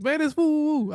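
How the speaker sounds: high-pitched, eager caller voice; mock caller. Caller saying who it is after a new phone, mock caller. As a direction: announce yourself high and familiar. Acted caller naming himself.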